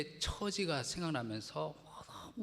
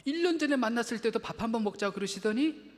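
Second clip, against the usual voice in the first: rising, much louder, building indignation; indignant retelling; 10 semitones higher, 8 dB louder than usual. Retold or imitated. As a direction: voice climbing higher and louder in outrage. Retelling hurt at empty promise. (억울함이 치솟는 높고 큰 목소리)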